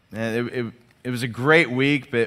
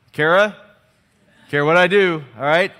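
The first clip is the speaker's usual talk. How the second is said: higher, louder plea for help; mock panicked appeal; 4 semitones higher, 7 dB louder than usual. Dad at a loss calling on his wife, mock panic. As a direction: call out as a comically helpless dad.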